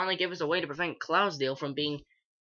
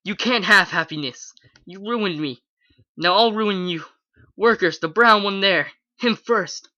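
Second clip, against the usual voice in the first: loud furious orders to the workers; furious yell; 4 semitones higher, 7 dB louder than usual. A narrator's reading. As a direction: yell it with mounting fury. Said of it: "pointed and yelled with more fury".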